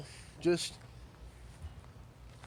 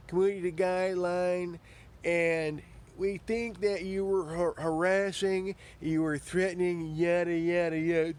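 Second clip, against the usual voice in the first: lightly mocked official spokesperson, evenly pitched; YouTube. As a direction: reel off a rote notice dismissively. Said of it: "YouTube likes to say".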